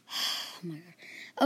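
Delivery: low, soft, very slow groan; weary groan. A narrator's reading. Teacher despairs at the mess, slow soft groan. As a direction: drag it out in exhaustion.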